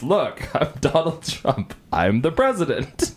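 Donald Trump. Retold or imitated. Showing off an accent to co-hosts, mock presidential voice. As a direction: stretch it out as a mock politician. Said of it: "wanna see me do an accent?".

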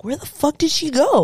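high-pitched mock bewilderment; baffled searching. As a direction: imitate someone puzzled, hunting around. Imitates partner searching for her.

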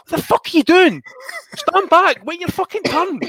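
high, loud furious yell; angry shout. Retold or imitated. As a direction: roar at the pushy shopper to back off. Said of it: "And I just turned back and I says".

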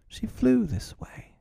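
put-on high, slow, puzzled boy; troubled. A narrator's reading. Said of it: "becoming troubled".

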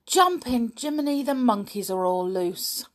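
gasp, then loud high outburst; alarmed exclamation. A narrator's reading. Nobby sees the monkeys are all loose, alarmed. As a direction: burst out in excited alarm.

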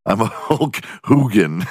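mock Hulk voice. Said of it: "Be like".

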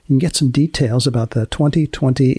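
unhurried announcer read of the show's closing; podcast outro. Acted. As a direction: sign off the episode like a radio host.

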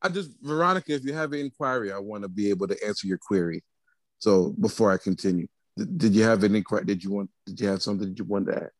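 formal news reporter voice; measured anchorman delivery; Peter Jennings. Pretend. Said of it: "he put on his good reporter voice".

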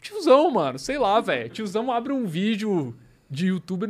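high, loud exasperation; exasperated. Real, not acted. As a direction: blurt it out in disbelief. Indignant exclaim about old guys.

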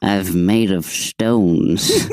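put-on slow creaky old man. Joking about being old.

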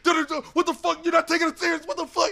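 high-pitched mock outrage; squawked imitation of an argument; imitated arguing. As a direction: protest like someone in a heated row. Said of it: "arguing, like".

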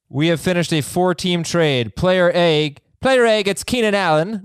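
shaky-grasp attempt at British English; terrible British accent. Host attempts the listener's email as a Brit, bad British accent. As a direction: try a British accent, badly. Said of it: "terrible British accent".

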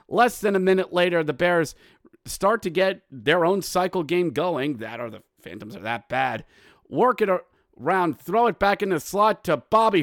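quick, lively hockey play-by-play. Real, not acted. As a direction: call the play as it develops.

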